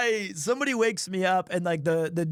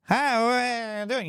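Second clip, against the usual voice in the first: put-on lightly slurred drunk greeting; slurring, words run together; wasted. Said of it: "I am completely wasted".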